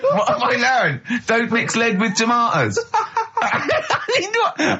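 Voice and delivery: real laughter breaking through the words; laughing incredulously. Real, not acted. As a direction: laugh through the question in disbelief. Mocking the story, laughing hard.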